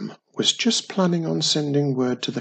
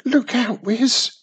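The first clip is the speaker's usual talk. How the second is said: much higher, louder warning call; urgent warning; 9 semitones higher, 4 dB louder than usual. A narrator's reading. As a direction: warn her daughter sharply of danger. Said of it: "warned Mum".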